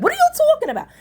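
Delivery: high, loud laughing protest; mock outraged wife; indignant surprise. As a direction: act shocked at the suggestion. Voicing indignant wife in recap.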